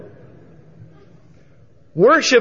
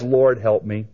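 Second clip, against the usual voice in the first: simple and sincere; 3 semitones lower than usual. Retold or imitated. Woman worshiping Jesus from her heart, sincere. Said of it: "simply and sincerely from her heart worships".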